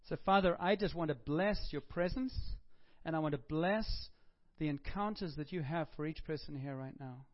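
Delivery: prayer voice, rising and fervent. Acted. Pastor praying over the congregation in prayer voice. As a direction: bless the people as you pray.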